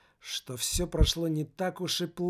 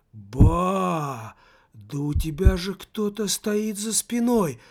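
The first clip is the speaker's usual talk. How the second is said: startled cry; 3 semitones higher, 7 dB louder, slower than usual. Acted. Sudden alarm at the back.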